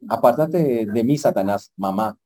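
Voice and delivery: mock rebuke to mom. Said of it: "alguien me dijo".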